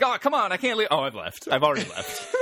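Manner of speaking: whiny-comic impression attempt, starting high; Rob Schneider. Podcaster imitating Averman's complaint, rough comic impression. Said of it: "I'm doing a Rob Schneider impression".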